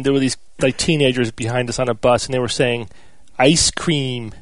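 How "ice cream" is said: put-on Italian teenagers' take on an American accent, lightly done; a touch of mock American; imitated mock-American accent. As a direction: slowly mimic foreigners mocking an American accent. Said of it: "American accent".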